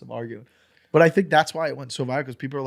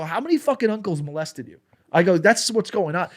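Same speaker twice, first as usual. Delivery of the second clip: retold taunt; 6 semitones higher, 5 dB louder than usual.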